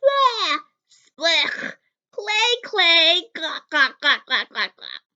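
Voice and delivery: loud, high yelling of disgust. A narrator's reading. Father spitting out the clay cookie, loud disgusted yell. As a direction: howl it out like the taste is awful. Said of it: "And he yelled".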